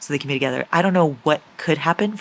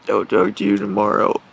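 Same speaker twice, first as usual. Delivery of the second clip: whisper; 8 semitones lower, 3 dB louder than usual. Real, not acted. Low whispered signoff.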